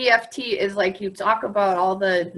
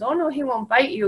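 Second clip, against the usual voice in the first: earnest, soothing reassurance; serious reassurance; 5 semitones higher, faster than usual. Retold or imitated. Dog owner reassuring the frightened girl, serious. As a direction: calmly reassure the child. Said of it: "and gets all serious".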